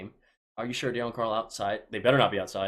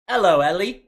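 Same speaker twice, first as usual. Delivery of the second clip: shouted Hello, Ellie, pitched way up and louder; loud high greeting; 9 semitones higher, 13 dB louder than usual. Shown as a demonstration. Greeting a fan named Ellie on stream, loud and high. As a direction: belt out Hello, Ellie like a big hype call. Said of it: "You say".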